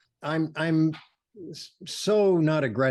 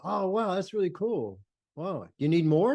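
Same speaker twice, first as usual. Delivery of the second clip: higher-pitched, mildly wowed reaction; impressed onlooker; 5 semitones higher than usual. Retold or imitated. Subject seeing the photographer's shots, mildly wowed.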